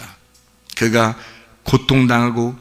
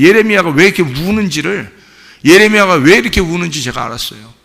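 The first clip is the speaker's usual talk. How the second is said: raised, pressing preacher's voice; fervent preaching; 8 semitones higher, 8 dB louder than usual. Real, not acted. Pastor testifying to congregation about Jeremiah's tears, fervent preaching. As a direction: preach it with rising conviction.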